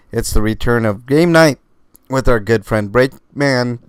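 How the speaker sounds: talking through hiccups; hiccuping between words. Real, not acted. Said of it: "Ugh, I can't stop, uh, hiccuping".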